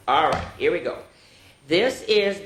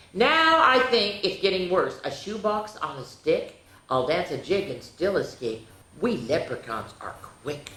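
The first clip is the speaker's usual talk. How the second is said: cheeky leprechaun rhyme; 3 semitones higher than usual. Acted. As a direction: read the leprechaun's boasts to the kids, playfully. Reads leprechaun picture book aloud.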